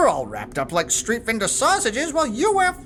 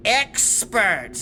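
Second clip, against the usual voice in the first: sarcastic; 2 semitones lower than usual. Real, not acted. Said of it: "trying to make finger quotes".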